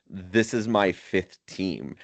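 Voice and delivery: slow, deliberate mock defiance; retold fuck-you defiance. Carlos answering Lewis in Australia, mildly defiant. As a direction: lay it out slowly as a retold put-down. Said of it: "says it in, like, a "Fuck you".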